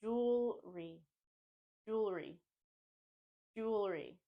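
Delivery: jewelry as JOOL-ree; two-syllable jewelry. Shown as a demonstration. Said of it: "So think jewelry".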